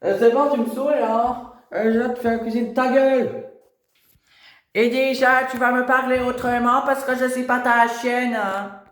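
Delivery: put-on high, bratty teenage girl voice; rebel teen daughter. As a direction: snap back like a sulky teenager.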